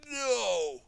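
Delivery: loud, slow defiant command; defiant villain. Acted. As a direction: defy him with menace. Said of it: "he told Garmadon".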